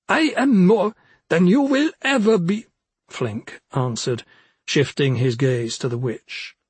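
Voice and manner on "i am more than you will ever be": high, proud little forest imp. Acted. Imp retorts.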